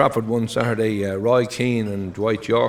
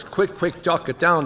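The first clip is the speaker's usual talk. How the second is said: urgent; 5 semitones higher than usual. Acted. Acted urgent phone call about fire.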